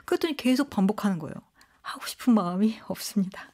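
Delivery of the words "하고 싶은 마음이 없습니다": composed, polite retold refusal; calm refusal. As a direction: decline evenly, with no irritation at all. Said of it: "침착하고 차분한 화법을 구사하니까". (침착하고 차분하게 거절하듯)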